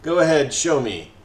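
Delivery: lightly voiced gloating snake; mocking, satisfied. Snake boss taunts a begging prisoner, mildly mocking. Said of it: "in a mocking yet satisfied tone".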